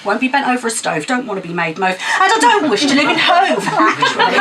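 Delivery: rhythmic, punchy poem recital; spoken word poem. Acted. Poet performing Moon on a Stick at open mic, rhythmic recital. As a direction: perform it to the crowd with attitude.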